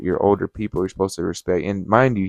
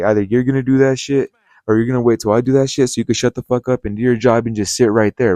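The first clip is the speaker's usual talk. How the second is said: louder, mildly heated retold telling-off; 2 semitones higher, 5 dB louder than usual. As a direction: lay down an ultimatum, retelling the argument. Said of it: "I started getting heated".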